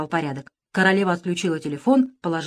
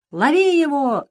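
higher, louder command; shouting; 8 semitones higher, 4 dB louder, slower than usual. A narrator's reading. One-Eye shouts at pirates to catch the boy, loud. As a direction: yell to chase him. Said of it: "закричал Одноглазый".

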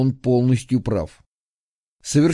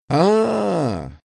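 relieved exhale; 4 semitones higher than usual. A narrator's reading. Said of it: "выдохнул Сидорчук".

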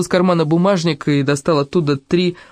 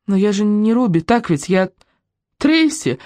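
higher, tearful confession; through tears; 5 semitones higher than usual. A narrator's reading. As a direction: break up on "Трейси". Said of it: "проговорила Руби сквозь слёзы". (сквозь слёзы)

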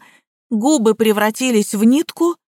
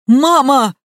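shocked cry; 4 semitones higher, 4 dB louder than usual. A narrator's reading. Son sees his grandmother lying dead.

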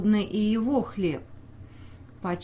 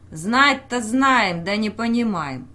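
slow, loud angry heckle; angry shout; 5 dB louder than usual. Acted. Peasant shouting back at the official, slow and angry. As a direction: drag out the first words in fury. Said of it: "дядька закричал зло".

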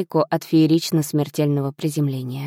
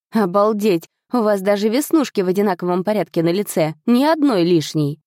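amazed. Acted. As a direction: gush in wide-eyed amazement. Amazed at identical freckles. (изумлённо и восторженно)

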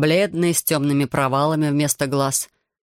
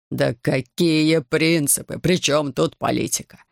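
slow, despairing protest; a distraught father interrupts the host's lecture; slower than usual. Acted. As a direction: cut in, mildly desperate. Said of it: "В отчаянии перебил Лора".

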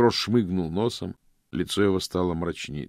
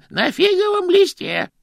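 quick interruption; 13 dB louder than usual. Acted. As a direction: cut in quickly, higher and louder. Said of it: "быстро перебил Грош". (Грош быстро перебивает юношу)

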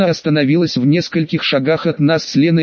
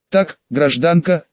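ordinary delivery

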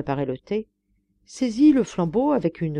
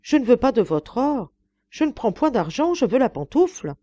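raised, distressed insistence; anguished protest; 6 semitones higher, 4 dB louder than usual. A narrator's reading. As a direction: refuse the bribe in anguish. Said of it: "s'écria la malheureuse gouvernante avec angoisse".

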